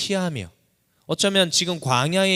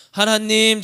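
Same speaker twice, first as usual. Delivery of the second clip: crying out to God; 9 semitones higher, 7 dB louder, slower than usual. Acted. Preacher voices cry to God.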